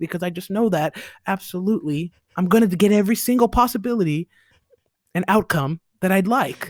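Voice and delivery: put-on formal, polished professional-sounding voice. Showing the group the voice he uses in professional settings; put-on white voice. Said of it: "I just start talking like this".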